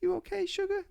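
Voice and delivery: very high American auntie impression; sugary put-on American accent. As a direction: ask tenderly in a high mock American accent. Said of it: "giving her an American accent".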